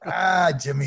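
chuckling through the name; laughing. Retold or imitated. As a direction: laugh as you say it. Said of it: "and he starts laughing".

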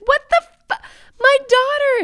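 loud, very high shriek; imitated horrified mother. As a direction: scream in mock horror at the discovery. Voices mother finding daughter dead.

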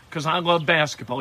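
lightly imitated Australian accent; a hint of an Australian accent. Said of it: "he said in an Australian accent".

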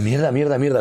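high, loud, startled repetition; acted-out alarm on waking; retold scared cursing. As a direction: curse in a jolt of fright. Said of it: "asustado, asustado".

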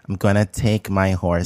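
lisping cowboy voice; lightly mocking lisp; lisping impression. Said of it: "Had a lisp on it".

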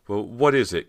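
high, loud, flustered question; stammered, flustered. A narrator's reading. Cody to Bo who confronts her, flustered high question. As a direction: blurt it out nervously, pitch up. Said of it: "Cody stammered".

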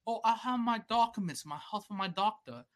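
lightly mocked British customer; British accent. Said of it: "some British guy".

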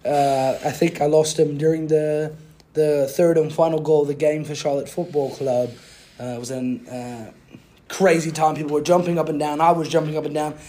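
put-on British accent. Podcaster recaps his week as a British man, mock British accent. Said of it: "I'll speak in a British accent".

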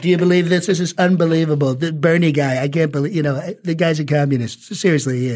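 incredulous Trump, pressing on; Trump impression. Shown as a demonstration. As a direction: Trump commenting on himself. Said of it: "it's always like".

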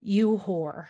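slow, halting outrage with dramatic pauses; hammed-up indignant scolding, laughter creeping in; mock indignation. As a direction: space out each phrase as if scandalized. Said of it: "very indignant about that fucking bell".

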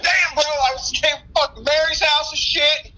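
high, slow slurred imitation; imitating drunk customer. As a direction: play a rambling liquor store regular. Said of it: "everybody's like".

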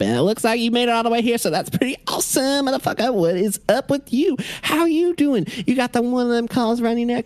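high, excitable voice of an unhinged fire-starter; manic firefighter. Acted. Firefighter Abel greets the stranger, high and manic. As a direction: pitch way up and gush like a hyper pyro. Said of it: "He turns and looks at you and says".

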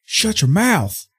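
high, slow, stretched-out order; exasperated hushing. Acted. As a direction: lean slowly on each word, fed up. Acted exasperated hushing of Clue.

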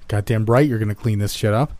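yelled. Acted. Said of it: "he yelled from across the diner".

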